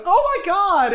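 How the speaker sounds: high, loud shriek of alarm; panicked cry. Acted. Game master voices Dee Dee backing from the monster, panicked. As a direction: cry out in high-pitched shock.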